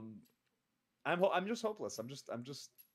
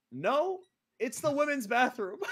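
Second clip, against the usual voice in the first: higher, louder, pointed correction; correcting woman; 9 semitones higher, 5 dB louder than usual. Retold or imitated. TNA staffer telling host it's the women's room, higher firm correction. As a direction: set him straight, firmly. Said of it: "comes back in and says".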